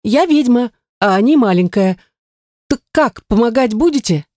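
lightly voiced proud witch; young witch, proud. A narrator's reading. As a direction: declare it with pride. Heroine answers the god.

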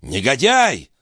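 sharp high insult; cry of scoundrel. A narrator's reading. Philippe insulting Balsamo, sharp high cry. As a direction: fling the insult at him. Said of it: "вскричал Филипп".

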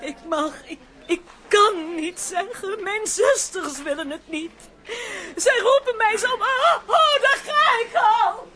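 tearful. Acted. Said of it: "Eerst uithuilen".

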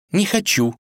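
девичий голос выше; упрямая дочь отказывает отцу; капризная царевна. Acted. Отвечала Василиса отцу. (царевна отказывает отцу, высоким голосом)

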